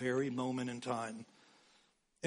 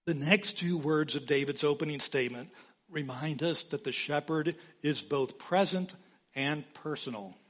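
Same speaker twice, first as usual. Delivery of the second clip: normal talking voice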